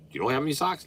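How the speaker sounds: high, rising disbelief; mock-surprised shop clerk asking; surprised question. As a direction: ask like you can't believe it. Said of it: "they like".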